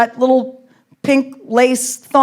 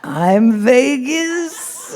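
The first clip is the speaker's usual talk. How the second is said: put-on slow, stretched Arab-accented coaxing; pushy Arab accent; 3 semitones higher, much slower than usual. Arab man coaxing her in Vegas, mock Arab accent. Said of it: "they don't take no for an answer".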